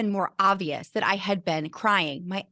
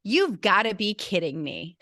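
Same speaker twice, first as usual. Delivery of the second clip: blunt disbelief. Retold or imitated. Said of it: "upfront, in your face".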